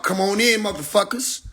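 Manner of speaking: sing-song come-on-in, lightly acted; mock welcoming call. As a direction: play the movie lady cheerfully waving them in. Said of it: "I'm the Asian lady".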